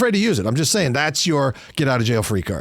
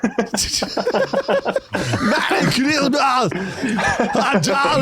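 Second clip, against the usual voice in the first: Terminator impression; 10 semitones higher, much slower than usual. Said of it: "You're getting borderline Terminator".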